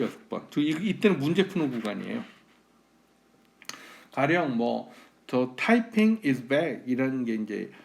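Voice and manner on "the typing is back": slow, careful American English; American accent demo. Shown as a demonstration. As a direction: model native pronunciation slowly. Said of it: "외국인 그대로 되게 흉내는 거예요". (미국식 원어민 발음 흉내)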